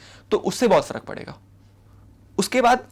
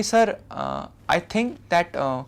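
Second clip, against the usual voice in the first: polite disagreement; 5 semitones lower, much slower than usual. Shown as a demonstration. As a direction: gently correct the sir without offending. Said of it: "आप ऐसा बोल दो कि".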